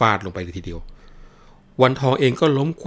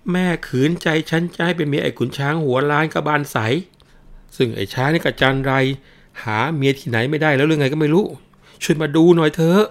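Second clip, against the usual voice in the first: high, loud cries for help; shouting for help; 8 semitones higher, 5 dB louder than usual. Acted. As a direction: yell for the whole house to hear. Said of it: "แล้วตัวเองก็ตะโกน".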